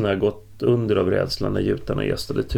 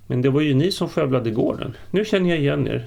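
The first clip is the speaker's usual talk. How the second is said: trembling voice; 6 semitones higher, 3 dB louder than usual. A narrator's reading. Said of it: "med darrande röst".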